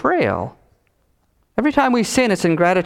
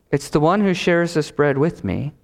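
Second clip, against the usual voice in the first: understated, even and unhurried; calm quote. Acted. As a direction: say it calmly, without any alarm. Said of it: "Jesus very calmly says".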